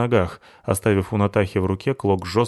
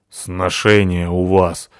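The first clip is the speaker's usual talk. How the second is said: slow, scornful and louder; angry; 5 dB louder, much slower than usual. Acted. Натаха сердито поправляет Абуту, slow louder scorn. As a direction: spit it out with contempt. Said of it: "сердито сказала Натаха".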